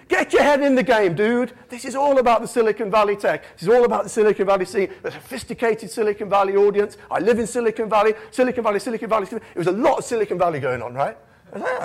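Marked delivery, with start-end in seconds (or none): 0.1-9.5 insistent pep talk. Retold or imitated. The speaker acted giving a pep talk.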